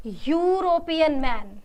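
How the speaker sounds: slow, careful teacher read of यूरोपियन मैन; slow model answer. Shown as a demonstration. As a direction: say यूरोपियन मैन slowly and clearly. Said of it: "हम क्या लिखेंगे इसको?".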